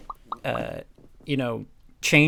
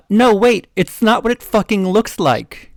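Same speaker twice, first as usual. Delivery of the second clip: loud, higher, slow pleading yell; hammed-up shout; 7 semitones higher, 9 dB louder than usual. Boyfriend begging his girlfriend, loud hammed-up shout. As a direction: shout it like a caught cheater. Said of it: "He shouted".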